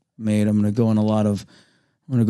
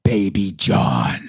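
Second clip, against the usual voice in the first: put-on baby voice; 5 semitones lower, much slower than usual. Self-nickname, slow voice.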